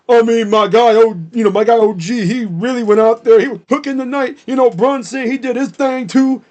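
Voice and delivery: mock Cat flipping to hype mid-answer; sudden hype switch. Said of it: "does a freaking tone switch mid-sentence".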